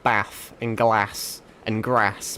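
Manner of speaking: slow northern English "bath", "glass" and "grass", all with a short flat a; northern English vowels, short flat a in "bath and glass and grass"; northern English accent. Shown as a demonstration. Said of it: "because I'm born up north, I say".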